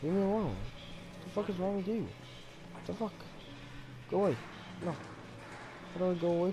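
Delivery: scared yelling. Real, not acted. Creature approaching player.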